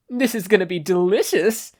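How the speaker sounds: high, gleeful creepy voice; creepy exclaim. A narrator's reading. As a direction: relish it like a hungry ghoul. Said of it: "Tabe exclaimed".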